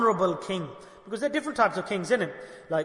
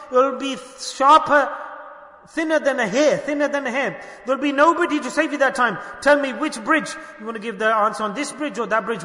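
higher, raised voice of warning; impassioned demand; 3 semitones higher, 4 dB louder than usual. Retold or imitated. Wronged widow warning the king of judgment, impassioned demand. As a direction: press the challenge hard, storyteller acting it out.

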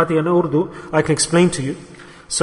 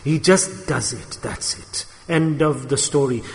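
quiet finality; 4 semitones lower, 5 dB quieter than usual. Real, not acted. Preacher on love that doesn't ask questions, quiet finality.

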